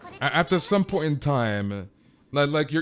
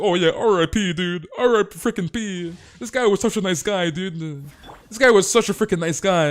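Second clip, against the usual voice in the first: higher-pitched mock tribute to the dead guy; mock mourning fans; 6 semitones higher, 4 dB louder than usual. Imitating viewers who only speak up once he's dead, mock mourning. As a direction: imitate fans gushing their condolences, pitched up. Mimics fake mourners after a death.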